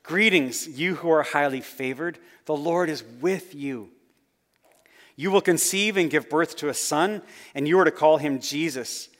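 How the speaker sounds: excited announcement, lightly acted; mildly excited angel. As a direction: share big news with a touch of excitement. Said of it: "the angel is excited and exclaimed".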